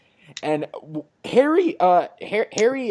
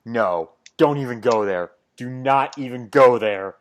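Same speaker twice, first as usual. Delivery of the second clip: firm warning; 7 dB louder than usual. Retold or imitated. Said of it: "Peter's just like".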